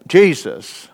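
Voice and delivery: ordinary talk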